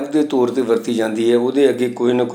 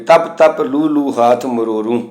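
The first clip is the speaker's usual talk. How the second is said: gurbani recitation; slower than usual. Shown as a demonstration. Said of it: "ਪਰ ਇਹ ਉਚਾਰਨ ਨਹੀਂ ਹੁੰਦੀਆਂ".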